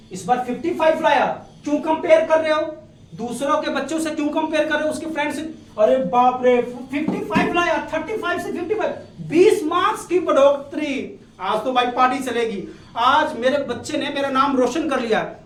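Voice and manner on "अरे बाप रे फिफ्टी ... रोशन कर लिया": mock-amazed, celebrating parent; motivating proud parent. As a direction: play a parent celebrating a child's small gain. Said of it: "इस तरीके से बच्चों को motivate किया करो".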